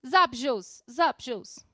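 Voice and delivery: casual American "Zup, Jules?"; contracted American greeting with a buzzing z; Americanized pronunciation. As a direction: ask it like an informal American greeting. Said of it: "a pessoa pode perguntar pra você".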